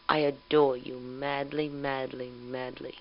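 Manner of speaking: an adoring voice fading to a hush; tender. Real, not acted. Loving words to husband.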